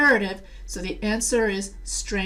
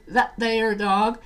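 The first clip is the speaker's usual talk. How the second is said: Southern accent; slower than usual. Shown as a demonstration. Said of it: "the reason why I did the Southern accent".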